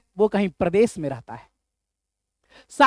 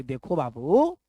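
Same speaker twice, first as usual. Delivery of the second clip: coaxing husband; 4 semitones lower than usual. Retold or imitated. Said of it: "समझा रहा है अपनी पत्नी को".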